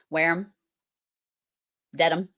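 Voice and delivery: Wareham and Dedham ending in "um"; ham said as um. Shown as a demonstration. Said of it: "ends in um".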